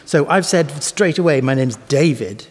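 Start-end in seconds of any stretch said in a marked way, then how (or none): 1.4-2.5 DAvid, first syllable strong, second weak. Shown as a demonstration. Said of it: "strong, weak".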